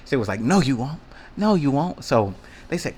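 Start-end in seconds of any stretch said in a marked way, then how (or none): 0.4-2.0 mocking girl. Girl doubting him.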